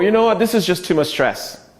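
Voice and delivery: a touch of high, put-upon complaint; mildly whiny stressed voice; whiny victim. Shown as a demonstration.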